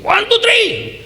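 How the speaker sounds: high, loud call from the top stands; stadium shout. Retold or imitated. A father on the top stand signals to his son, shouting high and loud. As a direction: yell the family signal across the court. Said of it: "saya teriaknya begini".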